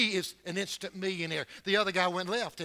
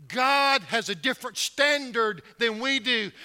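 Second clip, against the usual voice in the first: the line again, louder and higher, preaching; repeated louder; 5 semitones higher, 7 dB louder than usual. Shown as a demonstration. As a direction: hammer it home with a louder second take.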